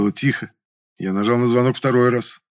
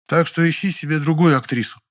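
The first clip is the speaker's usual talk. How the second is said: строго; 7 semitones higher than usual. A narrator's reading. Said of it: "строго припечатала".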